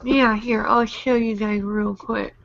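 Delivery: swollen cheeks, hard to talk; talking through swollen cheeks; after wisdom teeth. Real, not acted. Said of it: "my cheeks are swollen".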